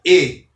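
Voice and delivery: "E" pronounced as a closed ê; closed E sound. Shown as a demonstration. Teacher repeats the resulting pronunciation, "E" as closed ê. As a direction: set "E" apart with a closed ê vowel. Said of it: "o acento circunflexo".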